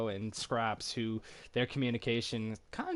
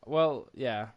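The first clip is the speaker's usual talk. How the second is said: laughing off fear. Real, not acted. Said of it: "You scared the shit out of me".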